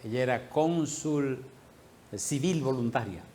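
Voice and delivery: slow, careful euphemism; tactful euphemism. Real, not acted. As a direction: choose each word delicately, pausing midway. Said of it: "tengo que decir esto con gracia".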